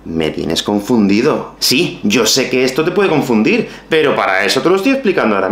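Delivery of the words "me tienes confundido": confused learner. Acted. Confused learner acted sketch.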